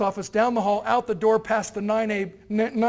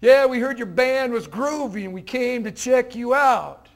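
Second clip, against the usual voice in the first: slow, easygoing hip greeting; relaxed, trying to be cool; 4 dB louder, slower than usual. Retold or imitated. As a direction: lean back and play it cool, drawn-out. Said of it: "now Mister Croft felt more acceptance".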